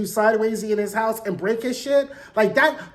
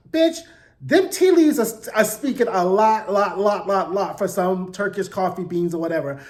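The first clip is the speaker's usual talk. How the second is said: sassy disbelief. Retold or imitated. Her own sassy reply to reading.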